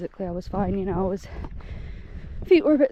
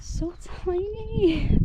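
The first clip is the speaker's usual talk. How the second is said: cooing; 9 semitones higher, much slower than usual. Real, not acted. Hiker coos at the deer, high and slow. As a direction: melt over how small they are.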